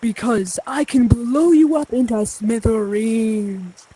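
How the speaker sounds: slow, hammed-up villain threat; megalomaniac rant. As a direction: menace like a cartoon overlord.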